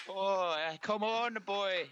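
high cheery Irish brogue; hearty Irish pub call; Irish accent. Pretend. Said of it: "You both have a decent Irish accent".

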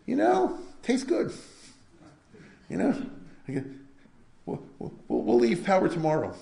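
hammed-up slippery ruler promising to leave; mock politician. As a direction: parody a shifty politician stalling. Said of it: "You ever hear any politicians talk like that?".

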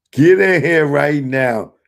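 calling out loud. Real, not acted. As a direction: yell it across the room. Calling the viewer into the stream.

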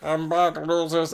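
lightly voiced gloating villain; star. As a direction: tease it like a smug comeback. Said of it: "Can I do Star's voice?".

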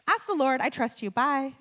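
imitated breezy dismissal; breezy brush-off. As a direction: toss it off and hang up. Director brushes her off on call.

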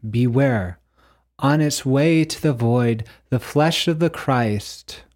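deliberate, weighty reading with firm stresses; solemn recitation. Acted. Reading the second panel's words aloud, solemn recitation. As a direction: proclaim each line like an inscription.

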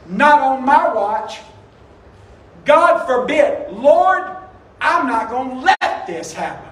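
slow, emphatic protest, rising loud on Lord; mock forceful refusal. Peter refusing Jesus's plan, slow and forceful. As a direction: stubbornly forbid it, leaning on each word.

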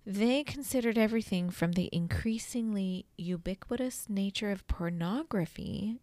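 hushed, solemn prophet reading. Shown as a demonstration. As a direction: read it like a reverent prophet. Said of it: "like, prophet voice on".

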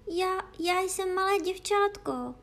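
not quite believing herself; girl doubting her own answer; a little unsure. A narrator's reading. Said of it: "řekla Alenka trochu nejistě".

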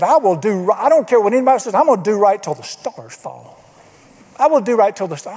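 hammed-up fiery vow from the pulpit; mock angry preacher. Preacher at a meeting vowing to do right, mild mock anger. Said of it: "he was mad".

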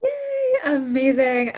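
squealing high yay; excited cheer. Real, not acted. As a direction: cheer her in with delight. Cheering a friend joining.

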